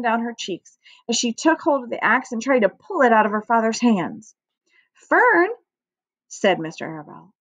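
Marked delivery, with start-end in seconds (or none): 4.9-5.5 high, louder reproving call; raised-voice parental reproof; firm name-call. A narrator's reading. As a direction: call the child to order. Father firmly addresses protesting daughter.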